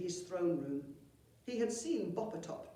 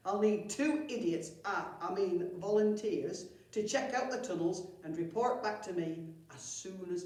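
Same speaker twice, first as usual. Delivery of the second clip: louder bossy goblin chief; 5 dB louder than usual. Acted. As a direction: bark orders with a slip of honesty. Chief giving orders.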